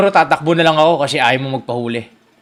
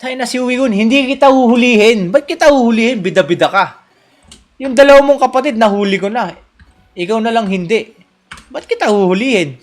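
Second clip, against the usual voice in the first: higher, louder taunting reverse psychology; mock dismissive; 4 semitones higher, 4 dB louder than usual. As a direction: pretend you don't care. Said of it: "reverse psychology". (kunwaring walang pake)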